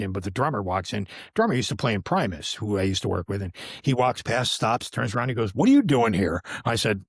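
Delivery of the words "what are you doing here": loud, mock-startled question; surprised greeting. Drummer stops and turns on spotting him, surprised greeting. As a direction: act out a drummer's surprise, voice raised.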